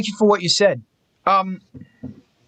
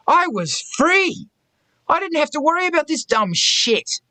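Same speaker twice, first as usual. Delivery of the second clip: giddy relief; 8 semitones higher than usual. Real, not acted. Recalls relief of ban.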